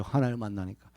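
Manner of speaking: ordinary talk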